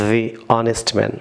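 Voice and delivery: "the" said thee, very slow, before "honest"; slowly, thee honest man. Shown as a demonstration. Teacher drills "the" before a silent h, very slowly. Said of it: "এটি vowel sound".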